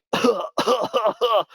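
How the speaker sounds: hammed-up fake cough, pitched high. Walking past the receptionist, a hammed-up fake cough. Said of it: "like, coughing".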